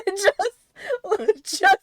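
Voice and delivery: nervous laughing cry; half-laughing, half-crying plea; laughing in fright. Real, not acted.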